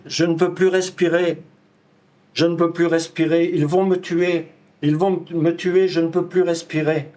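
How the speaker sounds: recited plea in short, insistent phrases; performed desperate plea. Acted. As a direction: plead for air, phrase after phrase, as a performance. Recites dying man's pleas to officer. (supplication récitée, insistante)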